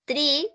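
TREE started on a hard T against the teeth; TREE as in the plant, with T not TH. Shown as a demonstration. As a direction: say TREE with a stopped T, no air. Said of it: "con los dientes nada más".

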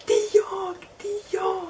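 high, loud call from the back. Retold or imitated. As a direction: pipe up eagerly from behind. Customer calls out from background.

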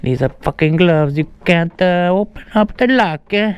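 halting mock Italian accent. Prankster fumbling the lock in riding gloves, mock Italian accent. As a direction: put extra vowels on words, Italian style. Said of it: "uh, an Italian accent".

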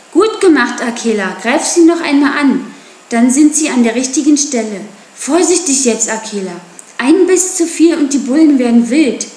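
loud, high calls to the wolf; shouting while herding. Acted. Mowgli urging Akela on during the chase, loud calls. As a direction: urge the wolf on over the noise.

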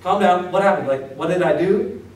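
calming someone on the phone; lightly acted whoa calm down; mock placating. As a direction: soothe a screaming caller. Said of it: "you go".

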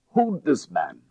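loud call for help; crying out. A narrator's reading. Detective wrestling a robber, calling to the narrator, loud cry. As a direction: shout for help mid-struggle. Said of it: "he cried as I appeared".

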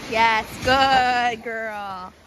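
slow, low, tender praise; drawn-out soothing praise; slow praising a dog. Real, not acted.

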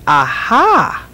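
put-on high, slow child's question; a little girl puzzling over the flags; curious child. A narrator's reading. Little Eldra asking her father, high and slow. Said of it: "Eldra wanted to know".

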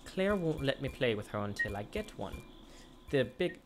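put-on a light child voice reading a wish list; lightly voiced little boy. Reads child's letter aloud.

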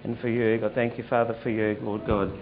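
earnest spoken prayer, rising and falling. Acted. Pastor praying over a man, earnest prayer voice. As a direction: lay hands and pray over him.

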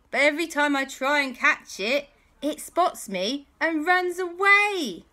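put-on a worried boy confessing, then getting wound up; Andy's high voice. Andy confessing to his friends, high and anxious. Andy explains the lost dinosaur.

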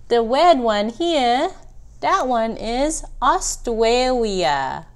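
r turned to w, "wed", "Austwalia", "Gweat Bawwier Weef"; baby mispronunciation. Acted. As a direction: lisp the r sounds like a toddler. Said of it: "I think you're pronouncing them wrong".

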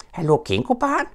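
high calling greeting; Piglet hailing. Acted. Piglet calls up to Roo, high. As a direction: call up to the tree. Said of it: "råbte grislingen".

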